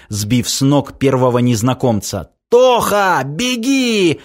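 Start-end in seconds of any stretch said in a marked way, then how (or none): 2.5-4.2 high, urgent cry of warning; desperate call. Acted. Semyon to his brother, desperate shouted warning. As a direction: call out to make him run.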